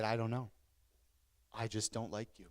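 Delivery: quiet, low retold confession; low and hushed, owning up reluctantly; subdued admission. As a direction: admit it softly, with a pause. Confessing dislike to youth pastor.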